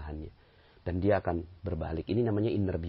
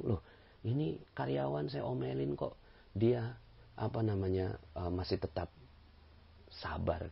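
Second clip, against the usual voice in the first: amazed boss; 4 semitones higher, 7 dB quieter than usual. Retold or imitated.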